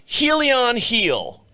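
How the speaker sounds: slow, drawn-out "Helion heel"; mock triumph. Real, not acted. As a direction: savour the name mockingly. Finally reads the label.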